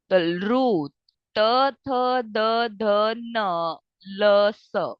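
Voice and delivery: त थ द ध with the tongue on the teeth; dental sounds demo. Shown as a demonstration. Teacher demonstrating dental letters, careful sounding out. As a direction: sound each tooth letter clearly. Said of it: "आप इसे देखोगे".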